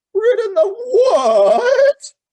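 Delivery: scornful, contemptuous neighing, very high, shrill and loud. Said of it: "retorted the horse with extreme contempt".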